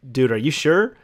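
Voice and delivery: mild doubt, rising at "sure"; doubtful question. Retold or imitated. Employee questioning the boss, doubtfully.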